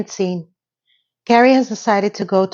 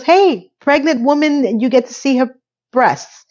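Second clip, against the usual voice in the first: put-on drunken taunt; 6 semitones higher than usual. Laney calls to party guest.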